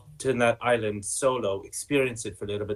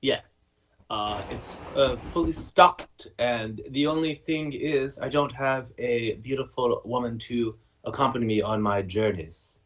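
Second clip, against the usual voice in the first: put-on French accent; 3 semitones higher than usual. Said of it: "Oh, you're French".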